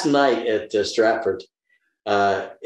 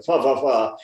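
mock posh British "fah-fah" noises; caricatured upper-crust British waffle. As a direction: burble like an English aristocrat. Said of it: "the upper crusting".

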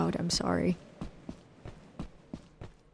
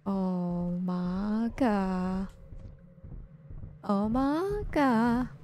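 slow, drawn-out frightened whisper-like words; scared; much slower than usual. Real, not acted. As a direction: creep past the monster, dreading. Creeping past monster.

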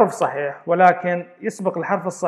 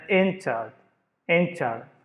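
"entered" and "enter" stressed on "en"; stress on first syllable; much slower than usual. Shown as a demonstration. Teacher giving examples, "entered" and "enter" stressed on the first syllable. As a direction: lean on the start of "entered" and "enter". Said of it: "والسترس على first syllable".

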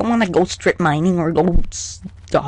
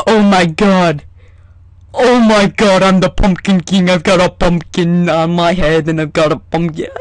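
louder, thrilled; excited proclaiming; 4 dB louder than usual. Real, not acted. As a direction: announce your new crown. Wearing pumpkin, proclaiming.

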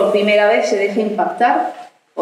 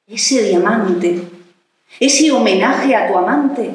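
measured, expressive verse reading with pauses; poem recital; 2 semitones higher than usual. Acted. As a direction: recite it line by line, lilting, letting each phrase stand. Recites an erotic sonnet.

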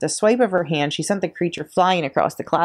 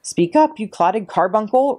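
roared; 5 semitones higher, slower than usual. A narrator's reading. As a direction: bark it at the child, slow on the insult. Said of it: "roared the Trunchbull".

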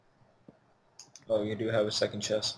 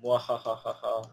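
evil laugh; slower than usual. Pretend. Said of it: "evil laugh".

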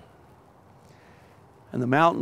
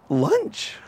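1 hungry wolf; 11 semitones higher than usual. Acted. Wolf eyes the two creatures.

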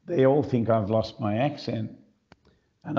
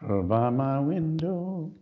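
frog in throat; 4 semitones higher, slower than usual. Real, not acted. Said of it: "even with a frog in your throat".

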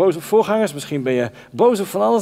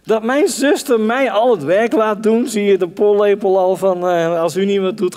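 indignant complaint; 4 semitones higher, 3 dB louder than usual. Acted. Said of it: "Heb je wel zo tegen God gepraat?".

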